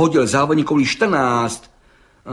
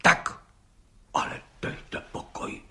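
whispered in disbelief, much softer; astonished whisper; 10 dB quieter than usual. A narrator's reading. Judge stunned by the gendarme's claim, whispering. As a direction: breathe it out, stunned. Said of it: "užasl pan soudce".

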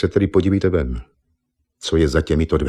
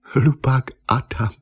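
mocking laugh; 6 semitones higher, slower than usual. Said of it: "zasmála se Eva".

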